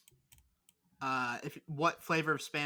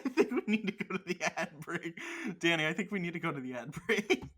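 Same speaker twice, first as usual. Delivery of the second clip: laughing. Real, not acted. Laughing through the ad cue.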